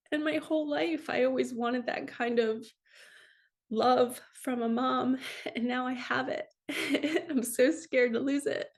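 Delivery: real tears, slightly lifted voice; moved to tears, a small laugh breaking in; choked up but carrying on; tearful. Real, not acted. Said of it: "I'm gonna cry saying this".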